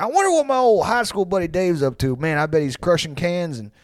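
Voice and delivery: lightly voiced hearty pal; imagined old buddy. Old buddy remembering Dave's birthday, lightly imitated heartiness. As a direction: imitate a high school buddy musing. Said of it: "probably, like".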